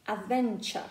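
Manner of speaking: British "adventure", open schwa at the end, no R; British accent. Shown as a demonstration. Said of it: "in British accent, it will be".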